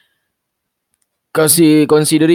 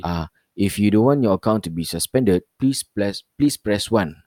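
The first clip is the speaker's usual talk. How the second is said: robot voice; 3 semitones lower than usual. Retold or imitated. Imitating automated bank message.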